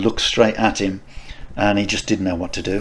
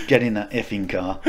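retold aggressive order; 4 dB quieter than usual. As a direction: give a restrained command, retelling your own aggression. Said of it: "I was so aggressive".

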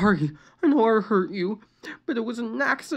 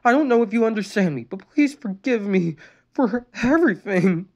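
high, louder tearful apology; tearful pleading; 8 semitones higher, 4 dB louder than usual. A narrator's reading. Sister apologizing to her brother, tearful. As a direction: plead through tears. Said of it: "Luann pleaded tearfully".

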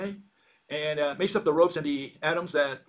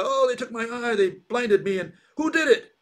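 blinded giant; 7 semitones higher, 4 dB louder than usual. Retold or imitated. Blinded Cyclops complains to others.

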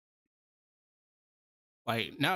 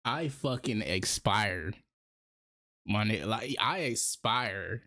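drawn out, very slow and low; slow mock dying; 3 semitones lower, slower than usual. Real, not acted. Streamer pretends to expire from laughing, very slow. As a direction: let the words die out slowly.

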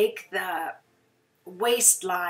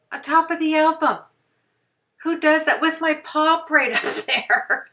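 high, loud, fast alarmed squeal at her own risk; 9 semitones higher, 7 dB louder than usual. Real, not acted. Crafter laughing in alarm at working over her album, high squeal.

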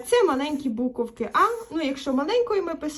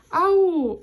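calling out; 4 semitones higher, 6 dB louder than usual. Acted. Boy calling for someone.

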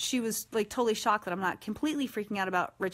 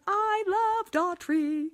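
high, very slow dreamy gush; swooning; 10 semitones higher, 3 dB louder, much slower than usual. Real, not acted. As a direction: melt over the name. Gushing again.

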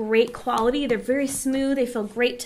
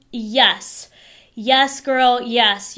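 delighted cheer; 6 dB louder, much slower than usual. Real, not acted. Swatch reveal, delighted.

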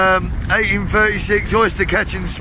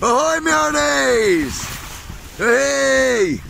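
slow pirate hail; 4 semitones higher, much slower than usual. Pretend.

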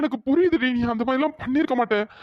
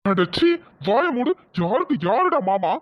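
a father-in-law scolding the son-in-law at his door, angry; 2 semitones lower, slower than usual. Acted. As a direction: shut him up with contempt.

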